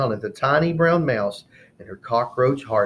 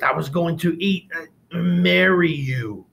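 lizard voice; 6 semitones higher, 3 dB louder than usual. Acted. Furious lizard slips up.

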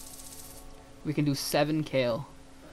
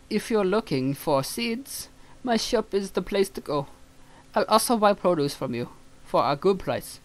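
shopkeeper voice; 5 semitones higher than usual. Acted. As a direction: sell your seeds like a sing-song clerk. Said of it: "let's just give him a normal one".

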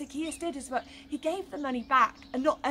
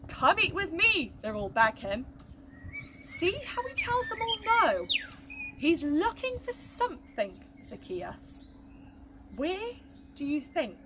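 put-on lively storytelling for children; story narration. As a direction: tell it to the little ones with wonder. Reading a Bible story to children.

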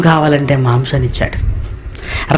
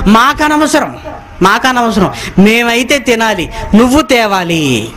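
higher, insistent, dismissive; defiant crowd demand; 4 semitones higher than usual. Retold or imitated. Crowd tells Moses they don't care, insistently demanding. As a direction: shrug him off and demand.

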